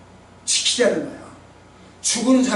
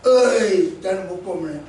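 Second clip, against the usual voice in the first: mock disappointment. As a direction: imitate a loser's regret, trailing down. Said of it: "아쉬워하기도 하고".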